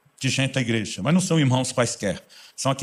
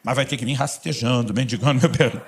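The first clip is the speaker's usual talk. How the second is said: grudging condition; slower than usual. Retold or imitated. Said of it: "ceder condicional".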